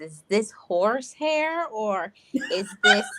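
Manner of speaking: mildly sneering, slowed on horse hair; a light mock of a snooty questioner; lightly voiced condescending coworker asking about hair. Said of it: "in a condescending way".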